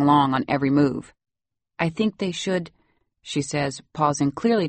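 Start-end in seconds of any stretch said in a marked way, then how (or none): 1.8-2.7 put-on lightly Salvadoran-accented English. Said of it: "You have such a nice accent".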